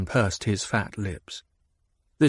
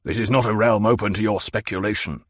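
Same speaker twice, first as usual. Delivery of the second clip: quick, clipped warning; faster than usual. Acted. Baron warns Hawat off, quick and stern. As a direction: warn him off. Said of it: "the Baron warned".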